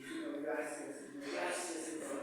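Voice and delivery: very soft, low re-enacted prayer; retold thankful prayer. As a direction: murmur thanks privately to God.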